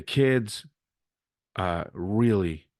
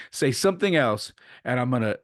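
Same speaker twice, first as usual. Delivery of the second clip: higher-pitched imitation of a stern warning; retold threat; 4 semitones higher, 3 dB louder than usual. Umpire warning the coach of ejection, retold threat. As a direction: mimic an umpire daring someone to push it.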